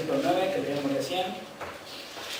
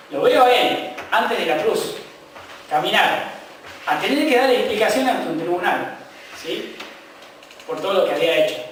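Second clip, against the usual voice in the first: impassioned preaching. Acted. Pastor describing the crucifixion to his church, impassioned preaching. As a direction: paint the cross for the flock, building intensity.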